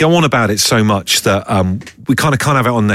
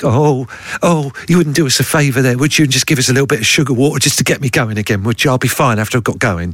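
lightly voiced pleading bee; a hint of a cheeky bee begging; bee impression. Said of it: "is that your bee impression".

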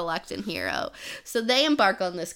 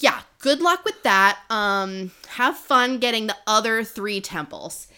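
breezy sarcastic good luck; mock send-off; 2 semitones higher, 4 dB louder than usual. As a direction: toss it off as a cheeky, louder send-off.

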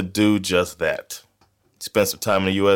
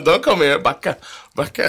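warning voice; 7 semitones higher than usual. Pretend. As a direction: call it out as a warning. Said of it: "Backa is a warning to everybody".

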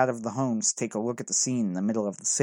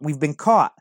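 loud, higher repeated alarm; shouting; 3 semitones higher, 5 dB louder than usual. A narrator's reading. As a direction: shout it once more as a warning. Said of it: "I shouted".

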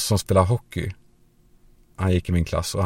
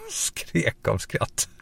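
laughing; 4 dB quieter, much slower than usual. Retold or imitated. Laughing at the shower prank.

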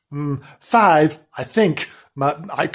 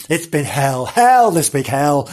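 hammed-up despair. Narrator to listeners, hammed-up tragic despair. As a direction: overplay the misery. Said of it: "I'm an emotional wreck".

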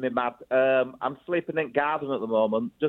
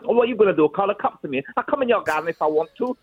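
higher-pitched, defiant taunt as a mouthy fox; cheeky fox attitude; 5 semitones higher, faster than usual. Retold or imitated. Fox taunting the man whose garden it visits, full of attitude. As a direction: voice a cocky fox, raised pitch. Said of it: "which has total face of attitude".

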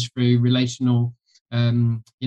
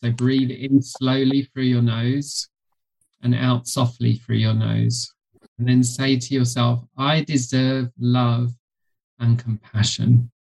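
guided meditation. Shown as a demonstration. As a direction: lead the breath calmly and slowly. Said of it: "I'll do a quick practice with you".

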